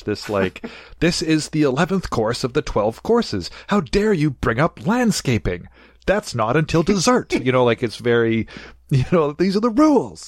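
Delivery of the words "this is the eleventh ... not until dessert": higher, fussy put-on posh Brit; mock posh British. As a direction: lecture on etiquette like a stuffy host. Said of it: "it's so British".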